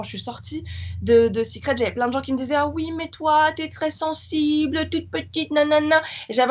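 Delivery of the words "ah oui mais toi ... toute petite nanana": ton condescendant. Retold or imitated. Imitating people talking down to her.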